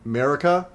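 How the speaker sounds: "Marika" opened with MARE; alternate pronunciation. Shown as a demonstration. Streamer checking how the name is said, alternate pronunciation. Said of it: "I say Marika".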